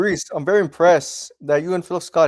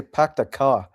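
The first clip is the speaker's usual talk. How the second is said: "pack the car" with a flat Boston "a" and no r; dropping the r in "car" Boston style; Boston accent; slower than usual. Retold or imitated. Guest imitating how Bostonians say park the car, in a mock Boston accent. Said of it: "they say".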